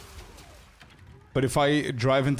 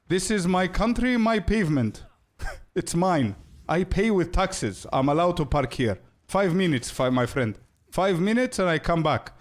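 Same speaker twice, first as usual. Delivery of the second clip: high, indignant mock Cypriot driver; defiant Cypriot driver; 5 semitones higher than usual. Driver insisting he owns the pavement in a Cypriot accent. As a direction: claim the pavement as your own.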